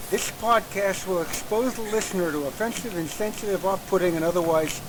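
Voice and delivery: lisping every S sound slushily; lateral lisp. Shown as a demonstration. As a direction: read it with a lateral lisp, S sounds slurred to the side. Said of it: "Tim, in a lisp".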